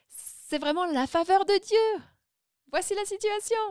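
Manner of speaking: high, elated retold declaration; exclamation émerveillée. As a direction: proclaim it with amazed delight. Retold exclamation to ticket seller. (déclaration enthousiaste, voix nettement plus haute)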